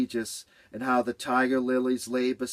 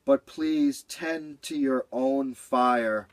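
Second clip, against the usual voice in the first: slow, knowing advice; smart; 2 semitones higher, slower than usual. Acted. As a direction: say it like a wise cat. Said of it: "Cat sounded smart now".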